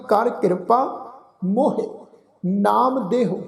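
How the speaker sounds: slow, measured reading with ਮੋਹੇ as "mo-he"; ਮੋਹੇ said "mo-hey", then a pause; scripture recitation demo. Shown as a demonstration. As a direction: recite slowly, sounding both syllables of ਮੋਹੇ. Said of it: "ਇੱਥੇ ਸਾਧ ਸੰਗਤ ਸ਼ਬਦ ਉਚਾਰਨ ਕੀਤਾ".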